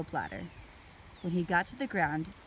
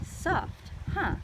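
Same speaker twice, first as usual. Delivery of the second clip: high, breathy half-whisper; 10 semitones higher than usual. A narrator's reading. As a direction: hush it with wonder. Annie, breathy.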